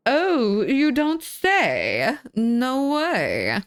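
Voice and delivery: high, drawn-out teasing disbelief; mock astonishment. Real, not acted. Teasing chat about a new girlfriend, mock astonishment. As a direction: stretch it out high as if amazed.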